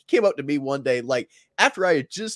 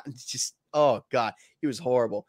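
ordinary delivery

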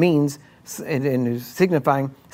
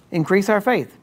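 higher, imitating an eager disciple asking; mock pleading disciple; 5 semitones higher than usual. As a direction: play it as a lightly mocked plea for more faith. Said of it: "it sounds like a decent request".

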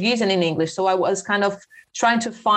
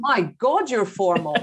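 father teasing; 2 semitones higher than usual. Retold or imitated. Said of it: "my father says".

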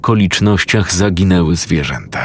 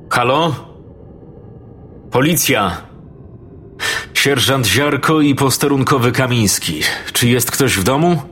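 calling out; 6 semitones higher, 3 dB quieter than usual. Acted. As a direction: call out to the empty house. Police calling into dark house.

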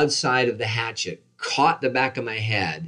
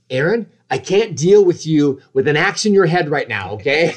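imitating stressed wife; 6 semitones higher, 7 dB louder than usual. Wife overwhelmed while making dinner.

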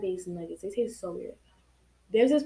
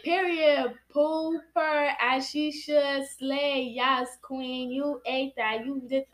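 ironic zoomer; 3 semitones higher, much slower than usual. Retold or imitated. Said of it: "Nah, they be like".

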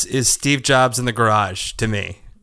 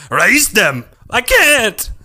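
high, alarmed cry; urgent movie shout; 10 semitones higher, 5 dB louder, much slower than usual. Acted. Fan acting out the Khan scene, urgent shout. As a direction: shout it, voice leaping up.

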